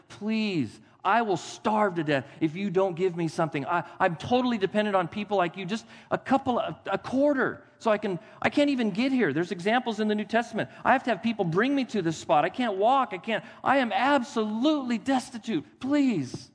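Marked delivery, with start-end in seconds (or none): 0.1-9.3 higher pleading roadside beggar. Retold or imitated. Beggar pleading with passers-by, higher and imploring. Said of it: "on the side of the road saying". 10.8-16.5 high, imploring plea; desperate beggar. Retold or imitated. Crippled beggar begging at the spot, high imploring plea.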